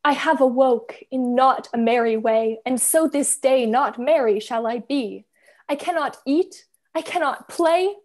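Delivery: a sulky little bird declaiming its woes like Shakespeare; reading Bird's mock-tragic opening speech in a grumpy play. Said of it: "Can I read Bird?".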